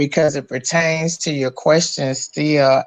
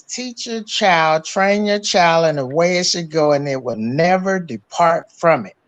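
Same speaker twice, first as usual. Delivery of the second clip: scripture quote. Retold or imitated. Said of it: "a word in the Bible that says".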